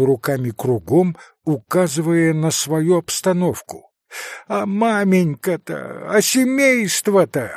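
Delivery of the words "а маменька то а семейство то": high, rising anxious question; frantic worry. A narrator's reading. Captain to doctor about his family, frantic.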